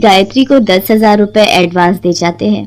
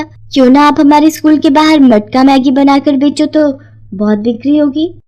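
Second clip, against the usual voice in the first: put-on higher girl voice, bubbling with an idea; eager daughter; 5 semitones higher than usual. Suman proposes selling matka Maggi to her mother, eager higher voice. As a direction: sell the idea to mum with excitement.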